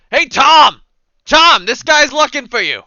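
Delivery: high, loud holler; calling out. Acted. Passer-by turns aside to fetch Tom, loud calling. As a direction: holler across to a friend. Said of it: "turns to the side and goes".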